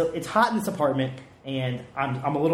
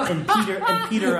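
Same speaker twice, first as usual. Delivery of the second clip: laughing; 3 semitones higher, 4 dB louder than usual. Real, not acted. Laughing while describing the segment.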